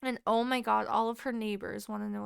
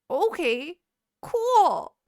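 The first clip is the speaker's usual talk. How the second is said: high, loud forced "fine"; feigned acceptance while inwardly alarmed; strained agreement; 6 semitones higher, 8 dB louder, much slower than usual. Retold or imitated. Grandchild told to wait for details, strained agreement.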